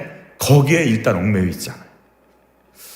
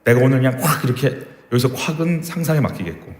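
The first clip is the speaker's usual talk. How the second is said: despairing slave; 2 semitones lower than usual. Retold or imitated. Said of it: "그런 스타일도 있을 것이고".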